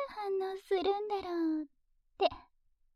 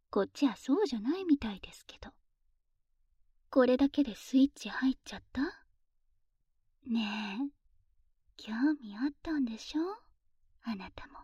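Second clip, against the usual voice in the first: teasing whisper; 2 semitones lower than usual. Acted.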